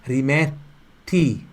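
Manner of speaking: Rimetti slowly, with the r tapped by the tongue tip. Shown as a demonstration. Teacher showing students the r in Rimetti, slow and tapped. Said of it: "pontinha da língua lá em cima".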